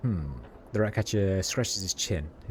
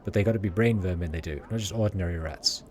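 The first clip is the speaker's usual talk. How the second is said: lightly voiced Sigil street accent; rat catcher's accent. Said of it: "it's all written in their accent".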